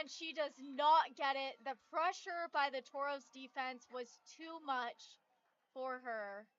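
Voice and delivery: loud, thrilled call; excited. Real, not acted. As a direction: announce the decisive stop. Live call of the final play.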